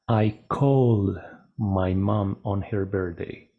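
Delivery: "called" as one syllable, "kold", in a slow sentence; correct called. Shown as a demonstration. Teacher modelling the right form in a sentence, slow one-syllable called. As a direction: say "called" with a voiced D and no extra syllable, slowly. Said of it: "Entonces sería".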